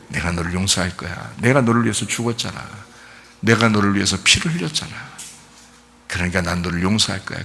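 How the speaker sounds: lightly acted loving reassurance; tender forgiveness. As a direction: forgive them quietly and tenderly. Voices Jesus tenderly forgiving the listeners.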